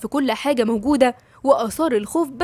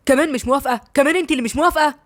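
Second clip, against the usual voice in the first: a touch of raised indignant voice; slightly raised, disbelieving repeat; mild loud outburst; 3 semitones higher, faster than usual. Acted. Man to his unwilling bride, a touch of raised indignation. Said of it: "قال بصوت عالي".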